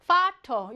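파터 with its first sound as f, not v. Shown as a demonstration. Teacher shows students German V, 파터 with an f sound. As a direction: say 파터 starting on an f. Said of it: "파우는 프로 발음하죠".

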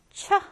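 "촤" as an isolated "chuh"; ch sound. Shown as a demonstration. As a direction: sound out "촤" on its own. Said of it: "촤 발음이 나죠".

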